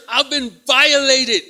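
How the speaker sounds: hammed-up outraged complaint, drawn out; mock distress. Distressed woman reporting to an officer, mock distress.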